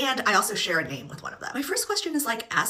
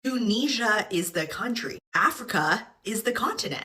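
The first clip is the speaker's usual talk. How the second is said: imitating the girl. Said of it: "The girl keeps talking into her phone".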